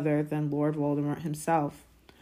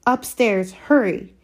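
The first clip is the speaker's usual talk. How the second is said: high, loud command; raised, impatient hurrying; urgent order; 6 semitones higher, 8 dB louder, slower than usual. A narrator's reading. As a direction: send him off sharply. Aunt orders boy upstairs.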